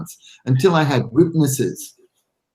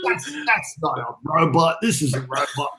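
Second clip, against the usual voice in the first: put-on awkward Italian accent; 2 semitones higher than usual. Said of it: "awkward Italian accent".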